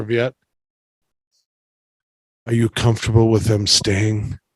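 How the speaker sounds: hushed whisper, close and leaning in. Narrator voicing a character who leans down to a player's ear, whispering. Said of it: "lean down and whisper into your ear".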